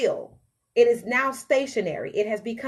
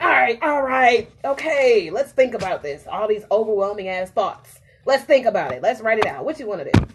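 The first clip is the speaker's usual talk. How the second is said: loud but soothing, calming down; placating brain; 5 dB louder than usual. Retold or imitated. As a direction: settle it like a reasonable friend. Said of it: "my mind is like".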